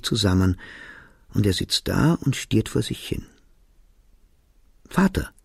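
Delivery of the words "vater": put-on a child's call across the room. A narrator's reading. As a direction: call Father high, pitched up to reach him. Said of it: "rief ich". (ruft nach dem Vater)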